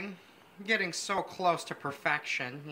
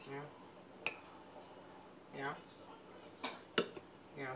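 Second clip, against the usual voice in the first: whispered yeah; 3 semitones lower, 15 dB quieter, much slower than usual. Real, not acted. Muttering over the slicing.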